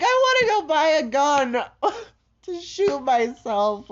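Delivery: a real crying crack in the voice; tearful confession. Real, not acted. Vlogger admitting suicidal plans to viewers, crying. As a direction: say it through tears. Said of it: "what you're listening to right now is an episode".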